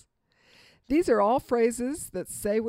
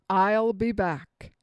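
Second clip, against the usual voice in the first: famous movie line; much slower than usual. Shown as a demonstration. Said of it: "How about this?".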